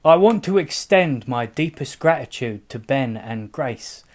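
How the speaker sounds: put-on Cockney thank-you; Cockney accent. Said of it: "I know you're not Cockney, it's the only accent I can do".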